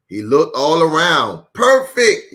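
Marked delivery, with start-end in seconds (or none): 1.5-2.3 delighted perfect. Acted. Daddy Bear pleased.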